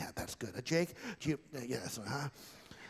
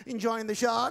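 ventriloquist puppet voice; 6 semitones higher than usual. Acted. Ventriloquist dummy voice.

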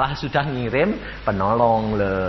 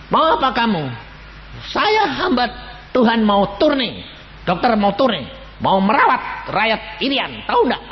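high calls into the dark; calling out to the gunman in the dark; retold calling out; 8 semitones higher, 4 dB louder than usual. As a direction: call out loudly to someone hidden.

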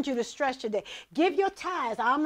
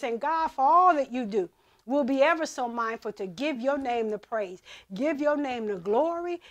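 earnest spoken prayer to God. Acted. Opening prayer before the sermon.

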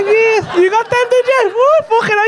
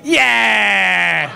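a cheery laughing yeah; hammed-up happy punter yell; mock excited yeah; 3 semitones lower than usual. Comic mimicking a happy front-row punter, laughing cheer. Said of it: "the dead happy ones going".

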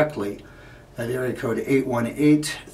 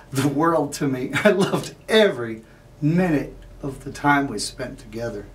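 louder, emphatic declaration of love; impassioned devotion; 2 semitones higher, 4 dB louder than usual. Acted. Man telling Irene she was the world, impassioned. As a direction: swell with feeling on the key words.

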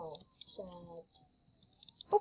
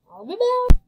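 loud sign-off; 11 semitones higher, 14 dB louder than usual. Real, not acted. Signing off excitedly.

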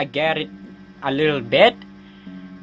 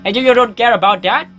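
put-on high, distressed kid voice; whining kid; 5 semitones higher, 4 dB louder than usual. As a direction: complain loudly to mom, pitched up. Voicing kid complaining to mom.

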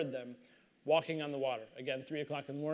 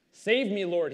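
urgent cry for help, louder; a narrator's raised plea to the Lord; shouted plea; 2 semitones higher, 7 dB louder than usual. Acted. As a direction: call out as if sinking. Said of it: "he shouted".

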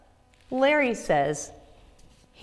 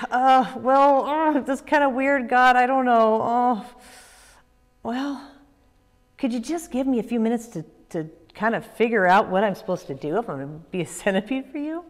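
nervous; 2 semitones higher, 3 dB louder than usual. Acted. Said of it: "he was pretty nervous".

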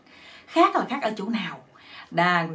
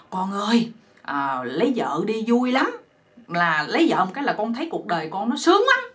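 coaxing plea. Acted. Parents sweet-talking their simple son into marriage, coaxing. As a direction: coax the stubborn son like bribing a child. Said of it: "hai ông bà mới năn nỉ".

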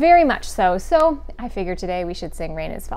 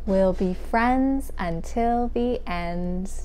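slow, measured singsong rhyme; children's rhyme recital; much slower than usual. Acted. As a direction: recite slowly with stretched key words.

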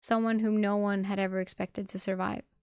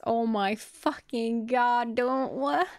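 loud, higher, drawn-out disbelief; stunned outburst; 3 semitones higher, 5 dB louder, much slower than usual. Real, not acted. Reader breaking off the story to react, stunned outburst. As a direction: blurt it out slowly, rising in shock.

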